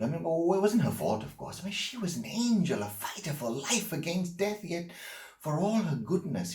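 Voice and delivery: high-pitched, urgent outpouring; agitated defence. Acted. Man defends the lover he fought with and lost, agitated. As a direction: plead her case, voice pushed high.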